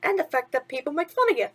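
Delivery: chirpy sidekick asking what's wrong; a hint of cartoon mouse; lightly voiced mouse. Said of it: "Timothy continued".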